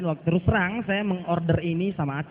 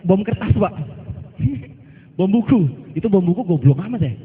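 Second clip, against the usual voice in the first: laughing loudly; 3 semitones higher, 5 dB louder than usual. Real, not acted. Joking about the exploding board.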